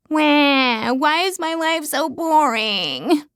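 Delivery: high, slow fake wail; boo-hoo it out like a pouting child; mock cry. Fake crying complaint.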